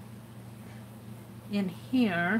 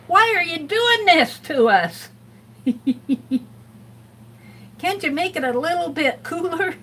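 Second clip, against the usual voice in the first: arguing with oneself; 5 semitones higher than usual. Pretend. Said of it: "I might have a conversation with him".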